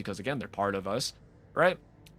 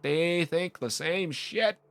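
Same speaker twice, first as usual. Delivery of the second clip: slow exasperated retort; 7 semitones higher, much slower than usual. Retold or imitated. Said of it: "I'm like".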